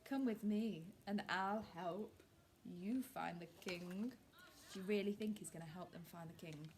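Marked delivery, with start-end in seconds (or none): 0.0-4.1 low, slow, sly fox; false-friendly villain murmur; luring fox. Acted. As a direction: lure them in softly and slowly. Sly fox lures the birds.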